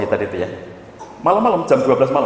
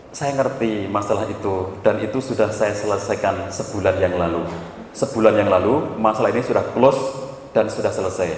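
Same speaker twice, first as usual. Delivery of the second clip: calm reassurance; 6 semitones lower than usual. Retold or imitated. Counsellor telling wife the affair is over, calm reassurance. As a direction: settle the caller down, low and unhurried.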